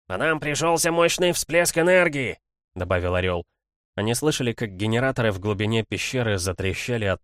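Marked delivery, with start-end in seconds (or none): 0.1-2.4 high, urgent eagle voice; eagle's alarm. A narrator's reading. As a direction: cry out the report, pitched way up. Eagle reporting an emergency. (высокий тревожный голос орла)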